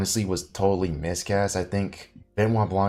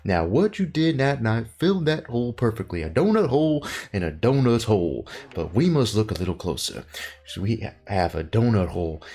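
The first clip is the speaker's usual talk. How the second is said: hammed-up Southern detective, higher and swooping; Benoit Blanc's fake Kentucky accent; 4 semitones higher than usual. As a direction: parody a Kentucky sleuth building to a big reveal. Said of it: "obvious fake Kentucky accent".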